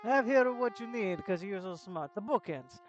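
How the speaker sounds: lightly voiced Italian merchant, brisk; a hint of a hammed-up Italian shopkeeper; Italian accent. Streamer reading an NPC in a light Italian accent. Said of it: "I make him very Italian".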